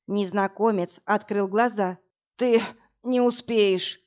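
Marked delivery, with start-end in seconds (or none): none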